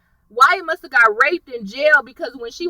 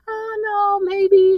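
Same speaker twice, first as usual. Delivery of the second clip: lightly voiced Veronica, higher and airy; breezy dismissal; 8 semitones higher, much slower than usual. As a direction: brush it off like it's nothing. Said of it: "real cool about it".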